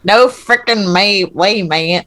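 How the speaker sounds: a light hint of a British accent, slow; imitating a British accent, lightly hammed up; mock British accent. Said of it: "That's what you sound like".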